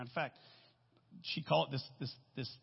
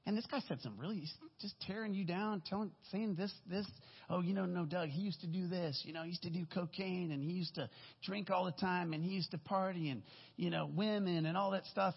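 imitating an upset caller, pitched higher; mildly upset report, voiced higher; retold upset; 4 semitones higher than usual. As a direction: relay it as an upset caller would. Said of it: "very upset".

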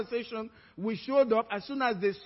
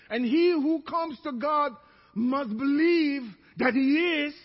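preaching scripture; 3 semitones higher than usual. Acted. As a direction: lean into every word. Scripture quoted again.

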